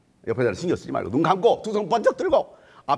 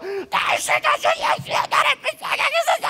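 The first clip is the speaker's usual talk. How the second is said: crying out. Acted. Bartimaeus begging Jesus for mercy, crying out. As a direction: call out to Jesus with all you have. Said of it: "그게 불렀더니".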